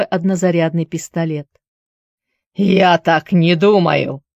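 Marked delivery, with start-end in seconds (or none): 2.6-4.2 slow menacing villain line; sinister villain. Acted. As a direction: say it slowly like a scheming villain. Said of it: "зловеще прошипел он".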